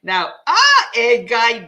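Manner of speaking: light up as you greet him; excited greeting. Real, not acted. Host greets a viewer on air, excited.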